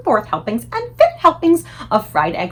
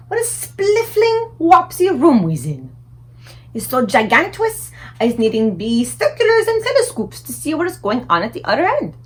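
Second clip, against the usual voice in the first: a big gentle giant marvelling; friendly giant voice; 4 semitones higher, 5 dB louder than usual. A narrator's reading. BFG voice.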